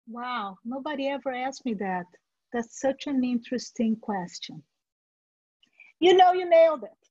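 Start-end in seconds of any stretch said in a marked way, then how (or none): 0.0-4.6 impressed interviewee. Retold or imitated. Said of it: "the interviewee will look and say".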